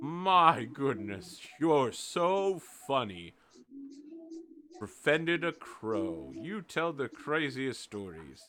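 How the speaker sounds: slow, amused condescension; patronizing. Acted. Rabbits humoring the storyteller, slow patronizing. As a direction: humor him like a child.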